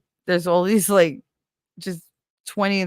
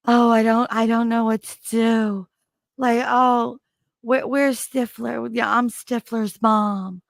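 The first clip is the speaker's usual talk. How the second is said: high, slow, dreamy ditzy voice; a light take on a breathless ditzy mom, pitched up; Jennifer Coolidge impression; 5 semitones higher, 3 dB louder, slower than usual. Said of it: "That she's like".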